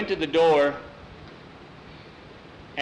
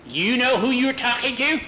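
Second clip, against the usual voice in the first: louder, much higher, indignant demand; angry witch; 10 semitones higher, 6 dB louder than usual. Acted. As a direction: demand it indignantly, voice climbing high. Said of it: "Hilda got angry".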